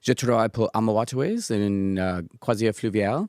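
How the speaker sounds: English speaker's halting French; French with a strong English accent; foreign accent in french. Real, not acted. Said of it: "mon français n'est pas bien".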